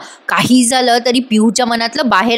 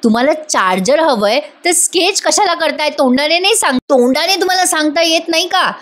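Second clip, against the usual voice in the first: higher, mock-irritated scolding; 5 semitones higher than usual. Kavya snapping at Parth over the charger sketch, in mock-irritated scolding. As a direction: scold him with retold annoyance. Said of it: "Kavya चिडते आणि म्हणते".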